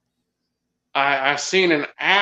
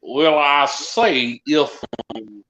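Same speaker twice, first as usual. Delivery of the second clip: put-on Louisiana accent. Asked for a Southern accent, does a light Louisiana accent. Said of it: "that's my Louisiana accent there".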